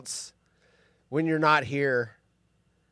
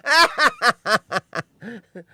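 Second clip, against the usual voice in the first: loud, higher burst of laughter; real laugh; 7 semitones higher, 7 dB louder than usual. Real, not acted. Host laughs at his own joke about Alan Alda.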